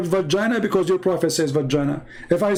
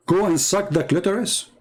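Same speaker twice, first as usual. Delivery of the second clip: incredulous mockery; 3 semitones higher than usual. Shown as a demonstration. Host repeating a quote to a Muslim caller, incredulous and mocking. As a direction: Go and suck the clitoris, repeated in a rising, disbelieving tone. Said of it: "Is that how you say to a, to a man?".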